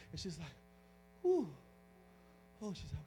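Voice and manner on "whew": relieved exhale. Retold or imitated. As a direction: let out a long acted breath of relief. Woman relieved after prayer, retold.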